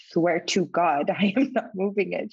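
slow, drawn-out swearing with a laugh; slow earnest denial. Retold or imitated. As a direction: insist slowly, half laughing. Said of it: "I'm like".

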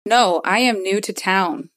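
lightly affected, careful formal voice; measured put-on diction; Boa's disguise voice. Disguised newcomer answers the bouncer, lightly affected voice. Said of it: "Nyx was talking like that".

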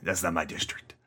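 a hint of a gruff Brooklyn cab driver refusing a fare; Brooklyn cabbie accent. Imitating a Brooklyn cabbie refusing a fare, lightly voiced Brooklyn accent. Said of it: "he's like a Brooklyn cabbie".

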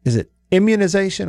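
"immunization" stressed on the IM; IM-munization, front-stressed; stress on first syllable of immunization. Shown as a demonstration. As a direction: hit the opening IM of "immunization". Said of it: "where do we put the emphasis".

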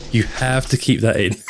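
laughing shout through giggles. Real, not acted. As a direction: say it while cracking up. Laughing at assistant interrupting.

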